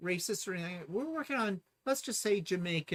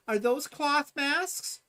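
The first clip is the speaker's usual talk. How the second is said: prim questioning voice; 9 semitones higher, 4 dB louder, much slower than usual. Retold or imitated. Quoting staff questioning masks.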